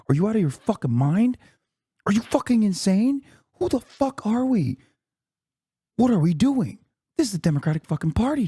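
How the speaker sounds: high, strained, exasperated outburst; whisper-screaming. Real, not acted. Streamer ranting at chat about the party, whisper-screaming. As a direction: rant in disbelief, volume held back. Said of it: "I have to whisper scream".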